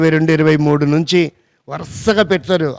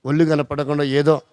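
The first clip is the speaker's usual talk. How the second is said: prayer of thanks; 4 semitones lower than usual. Acted. Voices a thankful prayer to God.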